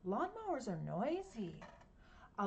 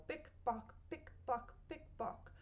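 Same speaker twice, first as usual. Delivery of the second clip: heel clicks; 3 semitones higher, 5 dB quieter than usual. Shown as a demonstration. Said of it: "She's wearing high heels".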